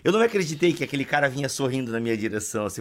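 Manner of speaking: usual speaking voice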